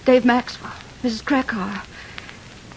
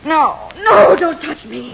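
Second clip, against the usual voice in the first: frightened recoil. Acted. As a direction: pull away from him in fear. Wife recoils from husband.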